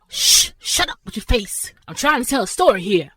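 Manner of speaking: high-pitched hush, settling back down; annoyed shushing. Acted. Storyteller silencing interruptions to tell a story, annoyed shushing. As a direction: shush them sharply, then ease into normal pitch. Storyteller hushing listeners before tale.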